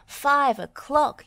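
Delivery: high, loud, slow call; proud shout; yelled. A narrator's reading. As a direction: announce the hour. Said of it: "yelled Wendy".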